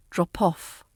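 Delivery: "drop off" run together as dro-poff; linked P. Shown as a demonstration. Teacher showing linked speech, P moved onto off. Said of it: "that P can move to the off".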